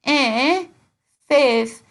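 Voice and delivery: loud, high Dundonian query; Dundee accent. Shown as a demonstration. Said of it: "Honestly, they'll go like".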